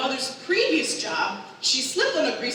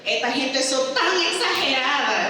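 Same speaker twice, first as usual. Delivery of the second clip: higher Spanish complaint as mom; mock a mother protesting, pitched up; imitated mom on call; 4 semitones higher than usual. Mom video-calling her child, imitated complaint. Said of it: "and she's like".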